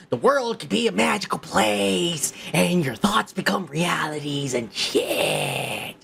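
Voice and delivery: breathy sarcastic hush, slowing at the end; mocking whisper; mock dreamy whisper. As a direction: whisper it like a starry-eyed dreamer. Mocking professors' naive beliefs.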